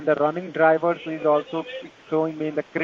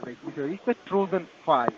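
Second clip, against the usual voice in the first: Indian call center. Real, not acted. Tech support scam call agent.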